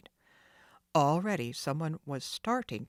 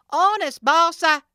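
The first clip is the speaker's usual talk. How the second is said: much higher, loud whine; pleading thug; 12 semitones higher, 15 dB louder than usual. Acted. Jake pleading with Sid, whining. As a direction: beg the boss.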